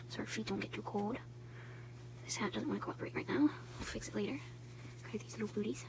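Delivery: hushed voice. Real, not acted. Hushed near sick baby.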